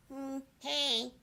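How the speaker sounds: a two-faced coworker's sugary hello; fake sweet greeting. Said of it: "Kathy's just like".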